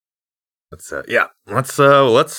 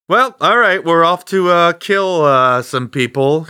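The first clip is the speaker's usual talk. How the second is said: cheerful; 8 semitones higher, 4 dB louder than usual. Acted. Cheerful announcement of murder.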